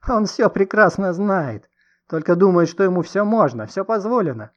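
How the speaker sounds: high, loud, heated tirade; hysterical denunciation. A narrator's reading. Distraught woman exposing man to the crowd, heated. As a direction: denounce him to everyone listening.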